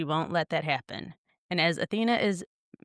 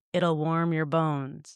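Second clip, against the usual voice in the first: super deep, growling demonic voice. Describing a scene, voicing what speaks instead of the grandmother, super deep demonic voice. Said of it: "this super deep demonic voice that says".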